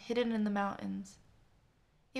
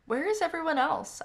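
calling out; 7 semitones higher, 5 dB louder than usual. Acted. Calling out to friends.

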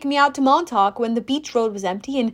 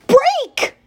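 high, loud yell; god yelling in panic; shouted command; 13 semitones higher, 5 dB louder than usual. A narrator's reading. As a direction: scream it to stop now. Apollo urging brakes louder.

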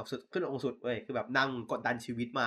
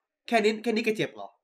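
higher-pitched, lightly acted taunt; mock intimidation; 7 semitones higher than usual. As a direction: needle a rival with a mocking question. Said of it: "เป็นการข่มแบบว่า". (แกล้งข่มเสียงสูง)

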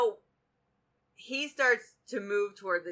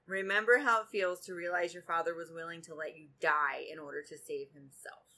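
reading a novel aloud; 2 semitones lower than usual. A narrator's reading. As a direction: read the romance scene out, taking your time. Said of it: "Hook says, quote".

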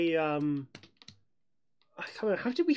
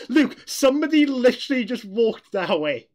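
scared; 8 semitones higher, 10 dB louder than usual. Retold or imitated. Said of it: "I was like".

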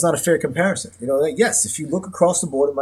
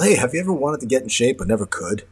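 infomercial; 3 semitones higher, 4 dB louder than usual. Pretend.

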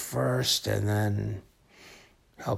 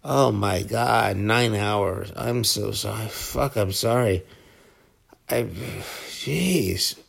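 startled apology; 5 dB louder, slower than usual. Real, not acted. Realizes he talked nine hours.

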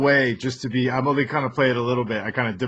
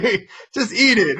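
laughing mock parent; 9 semitones higher than usual. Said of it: "it's like".

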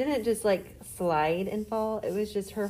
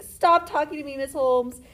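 pitched-up mock protest; louder, higher imitation of a student cringing away; imitating embarrassed student; 6 semitones higher, 5 dB louder than usual. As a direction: playfully mimic a mortified student's complaint. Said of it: "She'd be like".

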